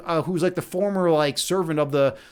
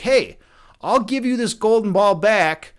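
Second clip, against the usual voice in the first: lightly imitated Chicago-style frog; Chicago-style accent; 2 semitones higher than usual. Frog offering the girl her ball back, light Chicago accent. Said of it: "like, Chicago-style accent".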